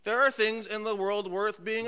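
lightly voiced doubting listener; voicing a skeptic. Imagined churchgoer protesting to the pastor, mild mock objection. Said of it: "you're thinking to yourself".

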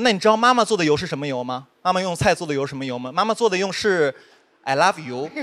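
imitated soothing mother, slowing toward the end; gentle patient explaining. Mother patiently answering her child, gentle and tender. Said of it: "就娓娓道来跟我说".

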